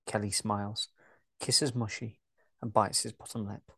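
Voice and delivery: even, steady story narration; calm audio-drama narrator; scene narration. A narrator's reading. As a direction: read the stage directions like a narrator.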